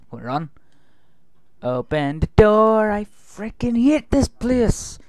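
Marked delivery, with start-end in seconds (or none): 1.6-5.0 high, loud, exasperated plea; panicked exclamation. Real, not acted. Player wanting out through the door, panicked exclamation. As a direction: cry out, pitch jumping up.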